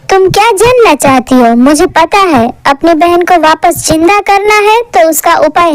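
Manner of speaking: witch guru. Acted. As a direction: answer like an all-knowing old sorceress. Narrator voices the witch guru. (ऊँची, रहस्यमयी चुड़ैल गुरु की आवाज़)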